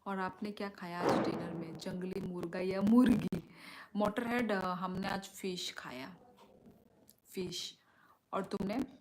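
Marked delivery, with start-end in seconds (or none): 4.5-7.8 whisper. Real, not acted. Reads chat comment.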